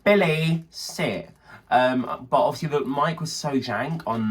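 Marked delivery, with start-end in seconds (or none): 0.1-1.3 firm command, name raised then dropping; calling a dog. Retold or imitated. Owner talking into a game microphone, dog command. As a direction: call the dog over, then order it. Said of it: "call over your dog".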